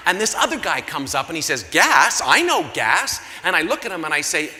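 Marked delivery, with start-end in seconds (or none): 1.6-3.2 louder, jumping in eagerly; eager blurt. Acted. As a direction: barge in keenly on the word gas. Eager stranger jumps in.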